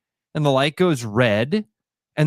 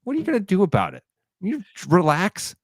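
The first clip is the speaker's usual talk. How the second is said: mock old lady sass; 7 semitones higher than usual. Old lady in traffic taunting the honking driver, high sassy. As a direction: tease like a cheeky grandma. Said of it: "She's like".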